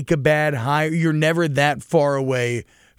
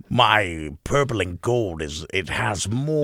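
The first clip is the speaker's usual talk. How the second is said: narrator voice; 6 semitones lower, 3 dB quieter, slower than usual. Shown as a demonstration. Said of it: "that sounds like your narrator voice".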